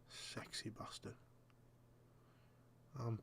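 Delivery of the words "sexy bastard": whisper. Real, not acted. Cheeky aside about a player.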